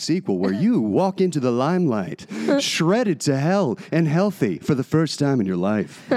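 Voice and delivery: lightly voiced epic trailer narrator; slow, dramatic trailer announcer; movie trailer voice. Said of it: "do it like it's a movie trailer".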